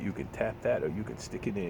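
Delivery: "You can tap that" with a mild knowing lilt; suggestive cashier line. Retold or imitated. Cashier flirting with a regular, mildly suggestive imitation. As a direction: retell it the way she slyly said it, understated. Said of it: "that's how she said it".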